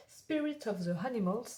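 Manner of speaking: English title read with a thick French accent; card deck name in French-accented English. Real, not acted. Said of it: "mon accent anglais".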